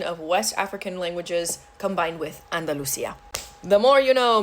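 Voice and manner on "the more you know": announcer voice. Pretend. Catchphrase sign-off.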